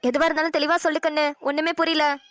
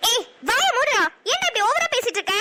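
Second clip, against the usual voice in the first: angry snap; 4 semitones higher than usual. Acted. She snaps back at him.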